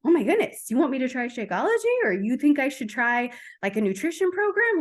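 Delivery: imitating someone caught by surprise; mock shock. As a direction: act out a startled reaction to a pitch. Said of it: "like, a surprise or a shock".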